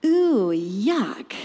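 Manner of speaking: low, breath-only whisper of disgust; disgusted aside. Acted. Preacher reacts to flesh growing on bones, disgusted whisper. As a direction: whisper it as if revolted.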